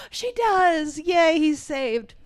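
mock cheering. Kids seeing Tombo saved, acted cheering. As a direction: celebrate like a kid at the movies. Acts kids' relief at rescue.

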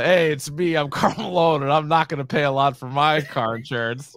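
lightly voiced ad pitchman; a hint of a sports star ad read; Karl Malone. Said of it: "or whatever the fuck he says".

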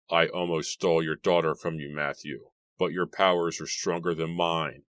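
usual speaking voice

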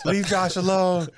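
high, slow mock protest; defending Josh. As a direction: drag out a protective plea. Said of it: "I was like".

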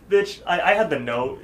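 high, loud, mock offended; indignant outburst. Real, not acted. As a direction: blurt it out, outraged.

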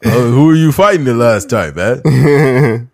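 put-on slurred, lost old boxer voice; confused old Rocky. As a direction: play a punch-drunk old fighter.

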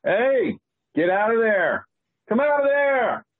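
put-on high, twangy good-old-boy cowboy; cowboy character voice.

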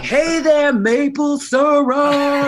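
high, loud, drawn-out call back; imitating a friend hollering a pet name; big hammed-up holler; playful yelled reply. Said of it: "And he'd be like".

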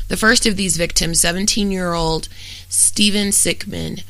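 documentary-style read, even and factual; true-crime narration. Real, not acted. Host reads a murder case to listeners, steady true-crime narration. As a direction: read a prepared case account aloud in steady, fluent sentences.

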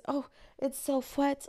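high, slow mock grandma moan; grandma complaining. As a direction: moan about the cold like grandma. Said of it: "so she just".

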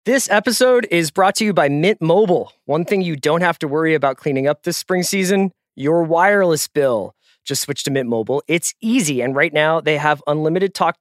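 brisk host-read sponsor spot; upbeat sponsor read. Acted. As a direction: sell it like a podcast ad.

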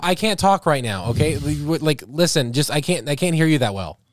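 Nikki. Pretend. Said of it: "I'll be Nikki".

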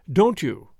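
Don't you as two separate, careful words; elegant foreign way. A narrator's reading. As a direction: keep the T in "Don't" apart from "you". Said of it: "in the elegant, foreign way".

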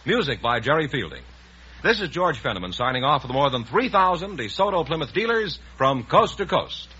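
smooth sponsor plug over music; announcer sign-off. Acted. Announcer plugging sponsor cars to listeners at show's end, smooth ad read. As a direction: wrap up the show with a confident sales read. Announcer credits and safety reminder.

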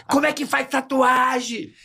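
put-on child voice. Imitating a child character.

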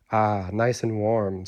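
slow, lightly voiced contented skull; talking skull. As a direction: savour it slowly as the skull. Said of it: "said the skull".

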